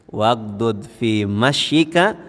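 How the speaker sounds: slow, measured Arabic recitation; Quran recitation. Acted. Preacher quoting the Quran on how to walk, slow recitation. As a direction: recite the verse slowly, syllable by syllable.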